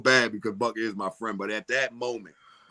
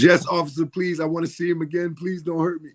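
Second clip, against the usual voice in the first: higher pleading voice, half-joking; mock pleading; 6 semitones higher than usual. Mike begs the officer for his life, high and pleading. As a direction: beg the officer like a scared kid.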